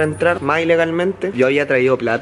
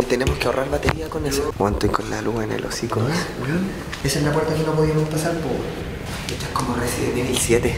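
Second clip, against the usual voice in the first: hushed voice in the dark; 6 dB quieter than usual. Real, not acted. Lights off in dark pediatrics. (en voz baja)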